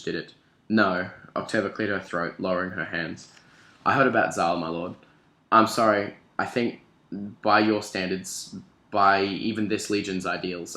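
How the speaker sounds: reading a novel passage aloud; story reading. Acted. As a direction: read the excerpt like an audiobook. Reads novel excerpt aloud.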